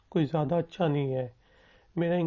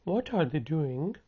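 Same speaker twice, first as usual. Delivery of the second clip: very slow, each word spelled out for learners; slow it right down so students can copy; slow model sentence; much slower than usual. Shown as a demonstration. Teacher slowly modelling a question for students to repeat. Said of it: "मेरे साथ repeat करें".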